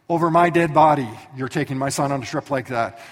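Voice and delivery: loud mock-furious wife; wife shutting the plan down hard; angry refusal. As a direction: slam it down, over my dead body. Sarah refusing.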